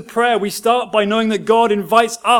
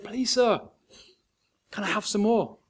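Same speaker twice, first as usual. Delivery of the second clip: even tinier hushed plea; smaller voice still; 2 semitones higher, 7 dB quieter than usual. A narrator's reading. Oliver repeats his plea to the master, tinier still. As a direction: shrink the voice further. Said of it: "in a smaller voice still".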